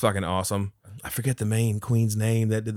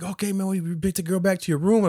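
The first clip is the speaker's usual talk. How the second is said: driver impression; 8 semitones higher than usual. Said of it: "he's like".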